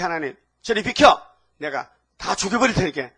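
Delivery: loud acted outburst; angry threat. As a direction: threaten to take over, forcefully. Acted angry threat in Bible retelling.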